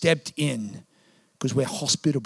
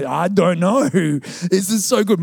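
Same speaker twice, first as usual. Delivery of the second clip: slow, laughing flustered reply; sheepish panic; 2 semitones higher, 4 dB louder, slower than usual. Retold or imitated. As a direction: stall nervously, caught out. Pastor caught unprepared.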